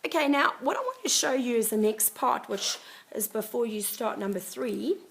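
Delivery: hoarse, croaky throat. Real, not acted. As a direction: speak through a croaky sore throat. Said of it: "Me with the croaky voice again".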